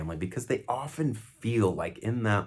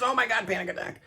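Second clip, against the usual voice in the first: mock panic, much higher; panicky; 14 semitones higher, faster than usual. Shown as a demonstration. Showing helpers the wrong way, shrill mock panic. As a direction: squeal it like a frantic bystander. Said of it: "Not like this".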